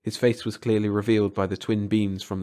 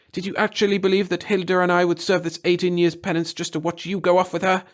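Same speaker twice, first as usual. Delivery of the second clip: passionate bitterness; 9 semitones higher, 4 dB louder than usual. A narrator's reading. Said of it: "in a voice that spat with passion".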